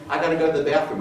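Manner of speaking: a hint of a sugary visiting grandkid; sweet grandkid. Senator mimics a grandchild greeting grandparents, high and sweet. Grandchild excuse to raid cabinet.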